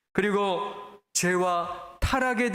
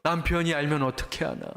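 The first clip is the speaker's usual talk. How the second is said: lower-pitched, mildly anxious inner thought; uneasy worry; 4 semitones lower than usual. Acted. Preacher voicing a wife uneasy about her husband finding out, mildly worried. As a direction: act out a touch of secret unease. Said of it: "아내도 항상 불안한 거죠".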